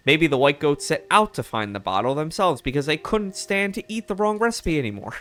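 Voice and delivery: lightly voiced mid-Atlantic reporter; mild mock mid-Atlantic accent. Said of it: "like, a mid-Atlantic accent".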